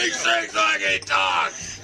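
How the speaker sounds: high, slow, drawn-out holler; hollered repeat. Real, not acted. Man repeats the remark for the group, high holler.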